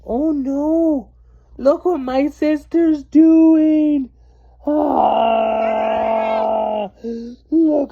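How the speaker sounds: high, loud frantic cries; alarmed panic. Acted. Girl panicking and calling mom about her sister, loud frantic cries.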